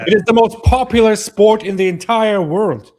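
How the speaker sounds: loud, high and passionate; excited. Real, not acted. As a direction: insist with full passion. Heated football defense.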